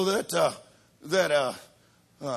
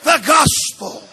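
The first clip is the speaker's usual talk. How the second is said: preaching; 5 semitones higher, 15 dB louder than usual. Acted. Preaching call and response.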